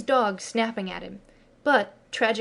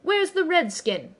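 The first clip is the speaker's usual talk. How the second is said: sudden sharp question, much higher; abrupt demand; 9 semitones higher, slower than usual. A narrator's reading. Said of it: "he demanded abruptly".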